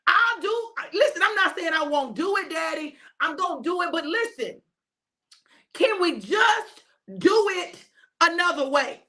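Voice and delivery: desperate plea to God for another way; pleading with Daddy. Acted. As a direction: plead like a child with his father. Jesus pleads with Father, "Daddy.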